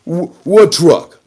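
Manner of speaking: high, slow incredulous mock voice; mock quote. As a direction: play dumb in a high put-on voice. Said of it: "And they said".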